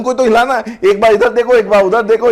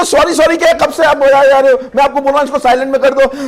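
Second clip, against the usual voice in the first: higher, sharp annoyed telling-off; irritated scolding; 5 semitones higher, 3 dB louder than usual. Retold or imitated. Trainer scolds aunty whose phone keeps ringing, annoyed and higher. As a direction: scold the aunty for ignoring you.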